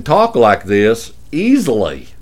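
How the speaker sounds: easy, put-on Dallas drawl; Dallas accent. Shown as a demonstration. Host proving he can still do it, Dallas accent. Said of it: "headquartered in Dallas".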